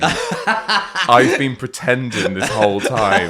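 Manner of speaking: slow, deliberate dawning realisation; mock realisation. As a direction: spell it out slowly as it dawns. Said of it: "I went".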